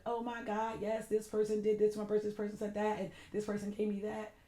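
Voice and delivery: mock delighted gushing. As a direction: act thrilled on the surface. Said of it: "and I'm like".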